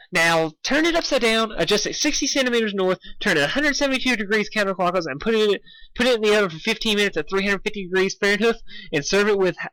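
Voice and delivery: high, eager pony voice, rushing; bubbly Pinkie rattling orders. Acted. Pinkie giving Dash absurd cloud instructions, high and rushed. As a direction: rattle off the list like a giddy party pony.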